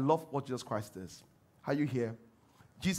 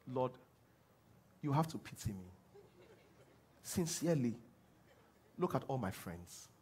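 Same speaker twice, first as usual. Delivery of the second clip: soft, low, pitiful pleading; mock victim prayer; 4 semitones lower, 8 dB quieter than usual. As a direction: whimper it like a beggar. Preacher mimics a whiny victim prayer.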